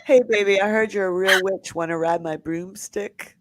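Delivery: playacting a creep to show harassment, hammed-up pickup; mock pickup line. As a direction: lay the sleazy line on thick. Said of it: "Something like that".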